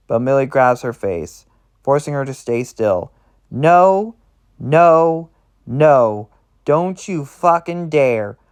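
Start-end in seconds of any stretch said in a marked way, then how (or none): 3.5-8.4 high, loud panicked pleading, then slowing; acted panic, pitched up and forceful. A narrator's reading. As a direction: refuse in rising panic, stretching the warning. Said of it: "Her voice cracks with pan-, panic now".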